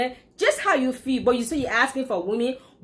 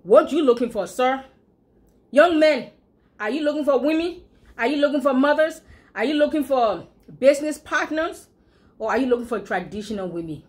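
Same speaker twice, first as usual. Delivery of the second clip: calling out; 4 semitones higher, 3 dB louder than usual. Real, not acted. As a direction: call out the question to them. Calling out to young men.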